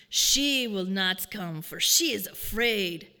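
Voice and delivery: put-on slow, firm old man rasp; deep gravelly voice. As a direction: declare it low and deliberate. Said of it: "deep and gravelly voice".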